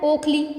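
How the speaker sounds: ओखली with short clipped ओ; correct short o. Shown as a demonstration. Teacher modelling ओखली for kids, short ओ. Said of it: "जैसे इससे क्या बन जाता है?".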